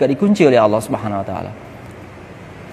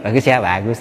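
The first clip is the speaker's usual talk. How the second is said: mocking praise; 4 semitones lower than usual. Preacher showing insincere praise of an outfit, mocking. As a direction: fake compliment after a snicker. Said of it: "Tapi kan ngejek gitu".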